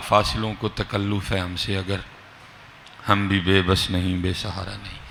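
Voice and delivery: measured poetic delivery; verse recitation. Acted. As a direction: recite the verse unhurriedly, softly.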